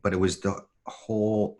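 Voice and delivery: ordinary talk, nothing marked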